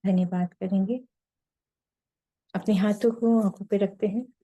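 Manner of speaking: unhurried meditation leader, long pauses between phrases; guided meditation. Real, not acted. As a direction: lead them gently into silence, phrase by phrase.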